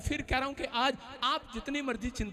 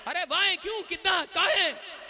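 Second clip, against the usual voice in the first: mock curious neighbour, pitched higher; 6 semitones higher, 5 dB louder than usual. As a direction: play the nosy neighbour asking why, lightly. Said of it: "अलग-अलग भाषाएं पूछ रहे हैं".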